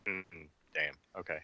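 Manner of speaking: ordinary talk, nothing marked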